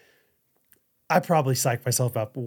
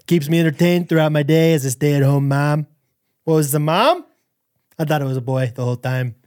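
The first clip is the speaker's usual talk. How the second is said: halting impression of a boastful politician; mock presidential delivery; Donald Trump. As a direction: read it out as the politician, pausing between phrases. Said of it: "do it in a Trump impression".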